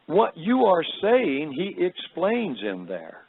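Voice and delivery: slow, deliberate British lady imitation; lightly voiced British woman, slowly spelling it out; heavy British accent. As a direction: start high and measured in a light British accent, then settle down. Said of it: "in her heavy British accent".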